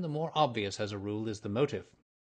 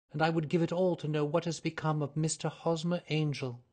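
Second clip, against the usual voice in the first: put-on higher, earnest young woman's voice; nervous young lady; 6 semitones higher than usual. A narrator's reading. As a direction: voice her as an eager, flustered client. Mary Sutherland voiced by narrator.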